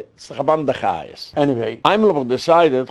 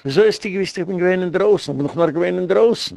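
retold disbelief; 5 semitones higher, faster than usual. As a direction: replay your own astonishment, pitched up. Retells his disbelief at the dream. (פֿאַרחידושט, מיט אַ העכער קול)

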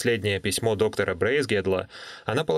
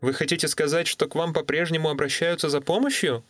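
put-on young woman voice; 6 semitones higher than usual. Natalie on the phone.

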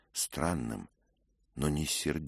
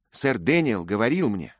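higher, louder accusing rant; furious young lady; 10 semitones higher, 12 dB louder than usual. A narrator's reading. Grieving lady accusing Dick of killing her kinsman, furious. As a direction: hurl every accusation at the knight. The lady's tirade continues.

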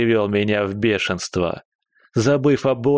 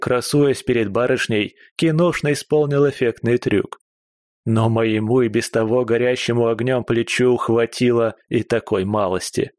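usual speaking voice

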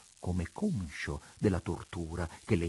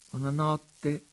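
coolly added remark, pitched up and louder; cold; 8 semitones higher, 5 dB louder, slower than usual. A narrator's reading. Daughter adding a word to her father, coldly. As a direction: add it coldly, with a lifted voice. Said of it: "aggiunse Dianella freddamente".

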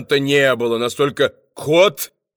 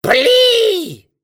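very high, loud bark; barked command; 5 dB louder than usual. A narrator's reading. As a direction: bark the order to fire. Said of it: "Фагот рявкнул".

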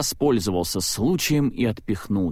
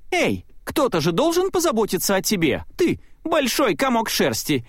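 высоко и весело, с задором; дразни друга радостно; 11 semitones higher than usual. A narrator's reading. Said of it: "весело ответил Майк". (Майк весело подшучивает над Салли на бегу)

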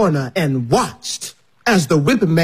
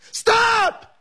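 high, sharp cry to stop; shouted stop. Retold or imitated. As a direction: cry out to halt it. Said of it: "he yelled".

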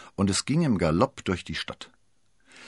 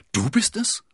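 ungläubige Frage, hoch ansteigend; verblüfft und laut nachfragen; höchst verblüfft; 5 dB louder than usual. A narrator's reading. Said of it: "rief Milady aufs Höchste verblüfft". (fassungslos erstaunt)

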